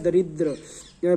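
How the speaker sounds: दरिद्र drawn out very slowly, syllable by syllable; slow answer. Shown as a demonstration. Teacher answering her own quiz question, slow and deliberate. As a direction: stretch दरिद्र out for the class. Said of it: "क्या होता है?".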